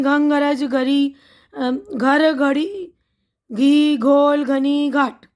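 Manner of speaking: a brisk run through the words; quick tongue twister. Shown as a demonstration. Teacher drilling the tongue twister for children, brisk. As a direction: rattle off the word list quickly. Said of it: "तो जल्दी जल्दी पढ़ते हैं".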